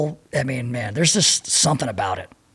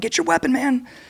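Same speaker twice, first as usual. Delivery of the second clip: put-on, very high-pitched, urgent shout; 11 semitones higher than usual. Retelling yelling at a frozen sergeant to wake him: retelling a yell. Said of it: "And I was yelling at him".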